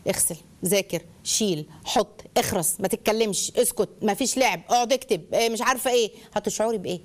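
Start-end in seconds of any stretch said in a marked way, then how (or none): 0.1-5.3 terse commands in separate bursts; acted curt, low-pitched commands; giving orders. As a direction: rattle off orders like a strict parent. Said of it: "اسلوب الاوامر".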